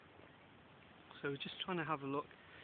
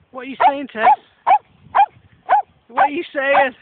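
talking to a horse; 12 semitones higher, 24 dB louder than usual. Real, not acted. Speaking to horse Tess.

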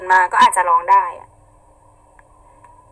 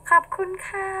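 high, sweet little thank-you; cute thanks; 8 semitones higher, 5 dB quieter than usual. Pretend. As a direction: chirp the thanks in a higher cutesy voice. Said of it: "ทำไมน่ารักกว่าชาวบ้านเขา".

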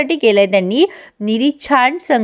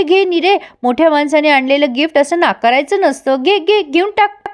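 coaxing sister-in-law; 4 semitones higher than usual. Retold or imitated. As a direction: coax her to take it, sweetly insistent. Pinky coaxing Niri to accept.

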